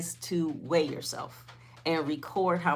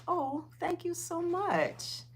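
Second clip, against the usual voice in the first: grateful thanks; 12 semitones higher, 4 dB quieter, slower than usual. Real, not acted. Thanks a viewer for a compliment.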